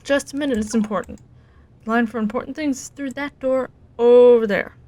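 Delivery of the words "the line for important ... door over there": 1 curt clerk. Acted. Rude clerk dismisses Oliver.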